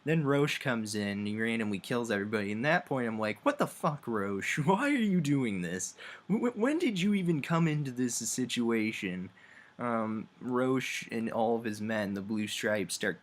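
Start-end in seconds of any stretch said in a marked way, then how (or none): 3.4-9.3 high, stammering outburst of disbelief; shocked disbelief. Retold or imitated. Player yelling at Roche for slaughtering everyone, high baffled outburst. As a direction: yelp it up high, baffled and stumbling.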